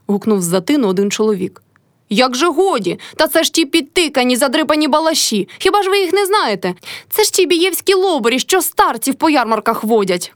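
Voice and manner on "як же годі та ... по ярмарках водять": high angry shout, slowing at the end. A narrator's reading. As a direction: yell the insults higher and higher. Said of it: "кричала Мотря".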